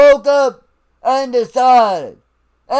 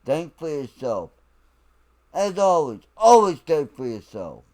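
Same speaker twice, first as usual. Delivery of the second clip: soft sign-off; 9 semitones lower, 7 dB quieter than usual. Real, not acted. Quiet sign-off to viewers.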